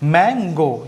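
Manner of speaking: मैंगो said slowly and clearly; slow model word. Shown as a demonstration. Teacher repeating मैंगो for students, slowly. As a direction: give मैंगो slowly for the class to hear. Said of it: "क्या है, मैंगो".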